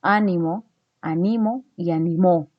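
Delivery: "Ánimo" on the first, "animo" on the middle, "animó" on the last syllable; walk the stress through "Ánimo, animo y animó"; stress contrast demo. Shown as a demonstration. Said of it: "El significado cambia".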